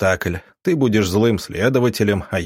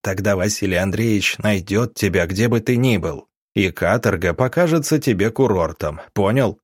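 icy threat. Acted. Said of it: "Голос Ивана Павловича стал ледяным".

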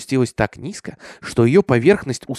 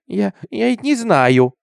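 put-on slow, high child's whine; whimpering; 8 semitones higher, 4 dB louder, slower than usual. A narrator's reading. Cornered girl answers her father, slow high whimper. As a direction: whimper it haltingly, pitched up. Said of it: "захныкала она".

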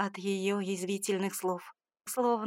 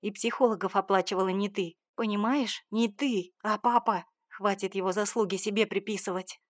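angry. Acted. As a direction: snap back at her in anger. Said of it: "Разозлилась я".

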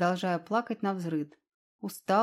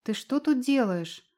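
exclaiming; 4 semitones higher than usual. Acted. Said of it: "воскликнула девушка".

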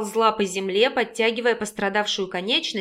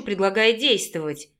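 ordinary delivery, nothing marked

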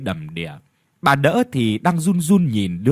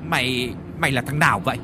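rough, fast bullying shout at a stranger; fast, rude challenge; angry shouting; faster than usual. Acted. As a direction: bark at the intruder. Old man yells at beggar.

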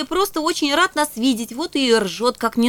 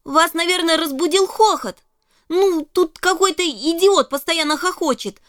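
excited protest; 5 semitones higher than usual. Acted. Girl protests to the ghost.

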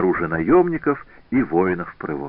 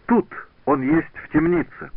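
put-on German-accented shout; 8 semitones higher than usual. A narrator's reading. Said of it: "крикнул Герман".

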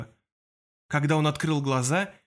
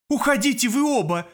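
loud, high order to leave; commanding; 9 semitones higher, 4 dB louder than usual. A narrator's reading. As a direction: order them out sharply. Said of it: "приказала Анастасия".

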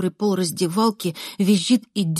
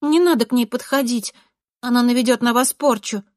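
higher, urgent warning; warning schoolgirl; 5 semitones higher, 4 dB louder than usual. A narrator's reading. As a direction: warn them off, voice raised. Classmate warning boys of a curse. (предостерегающе, повышенным голосом)

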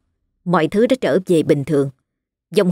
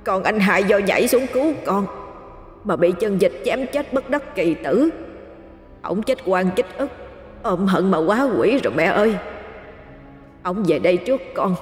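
softer, tearful confession; hushed weeping as she tells it; sobbing; 5 dB quieter than usual. A narrator's reading. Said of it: "vừa nấc lên từng tiếng".

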